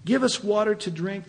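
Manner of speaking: lightly acted demanding crowd; mock demand. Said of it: "they demanded".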